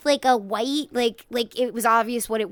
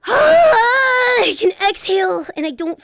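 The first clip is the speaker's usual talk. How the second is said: tearful relief; 9 semitones higher, 9 dB louder, much slower than usual. Real, not acted. Relieved exhale, emotional.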